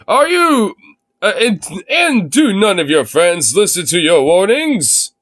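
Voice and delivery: light ad announcer read; a hint of a TV pitchman; infomercial voice. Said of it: "Read in infomercial voice".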